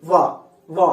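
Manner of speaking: వా pushed out from lip on teeth; each వా alone, air released with force; forceful release. Shown as a demonstration. Teacher shows students air coming out, forceful release. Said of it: "అలా force గా బయటికి వస్తుంది".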